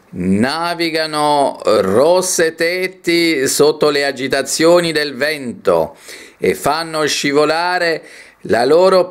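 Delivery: slow, measured poetry reading; poem recitation. Acted. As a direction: declaim each phrase, lingering on the stressed vowels. Reads a poem aloud.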